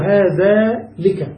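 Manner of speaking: "هذا لك" drawn out very slowly as the forbidden form; slowly demonstrated wrong example "هذا لك". Shown as a demonstration. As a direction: stretch out "هذا لك" to show it is not said. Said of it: "لا نقول".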